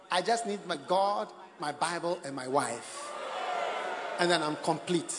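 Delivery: sinking into a solemn mock tribute; mock devoted husband. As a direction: act the devoted husband, low and deliberate. Acted husband's party speech.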